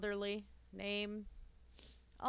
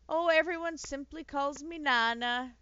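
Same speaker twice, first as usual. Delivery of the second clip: put-on sweet old nanny; 5 semitones higher, 8 dB louder than usual. Reads an old nanny's dialogue.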